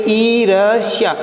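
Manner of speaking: ईर्ष्या said slowly, syllable by syllable, the half र sounded before ष; slow, deliberate ईर्ष्या, letting each sound come through; careful spelling demo. Shown as a demonstration. Teacher showing students how to read ईर्ष्या, slow and deliberate. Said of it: "तो इस रे को हम कहाँ से पढ़ेंगे".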